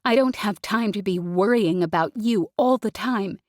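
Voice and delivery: tearful building rant; rising to tears. Acted. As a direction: build until she breaks. Jez building to breakdown.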